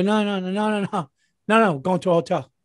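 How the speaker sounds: high, fast, exasperated string of no; retold refusal. Husband refusing to stay home hot, high exasperated no's. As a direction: fire off the no's, fed up.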